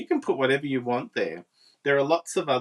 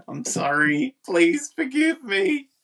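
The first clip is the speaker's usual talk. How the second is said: pleading; 9 semitones higher, 6 dB louder, slower than usual. Real, not acted.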